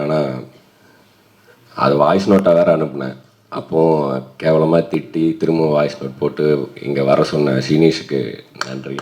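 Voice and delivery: hoarse voice after being sick; rough, worn-out voice; voice giving out. Real, not acted. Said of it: "குரலே வரலன்னு சொன்னேன்".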